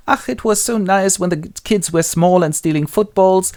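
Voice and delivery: high-pitched nostalgic sigh of words; sentimental. Acted. Willie alone in the garden recalls the kids, sentimental. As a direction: reminisce fondly in a lifted voice. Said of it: "seized by a fit of sentimentality".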